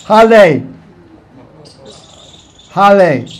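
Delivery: "Hale" with a clear L for the R; Chinese pronunciation. Retold or imitated. Showing how they chant in China, "Hale" said with an L. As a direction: punch out "Hale" with L instead of R. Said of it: "They say Hale".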